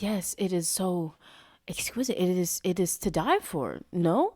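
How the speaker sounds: lightly mocked fake Italian accent; hint of faux-Italian, playfully mimicked; Bella Hadid. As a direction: imitate an affected Italian accent. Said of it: "that video is so funny 'cause she's like".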